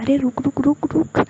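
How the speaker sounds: loud high shout to stop; calling out. Acted. Jiya shouts after the fleeing member, loud. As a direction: yell after someone running away.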